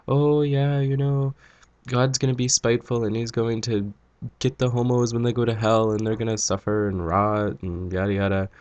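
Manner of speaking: hint of an opinionated old man; casual old man chat. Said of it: "casual old man conversation".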